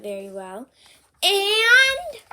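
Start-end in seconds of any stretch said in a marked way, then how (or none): 1.2-2.2 high, loud insistent prompt; eager demand. Acted. Piggy pressing Gerald for more praise, eager. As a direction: push for the compliment.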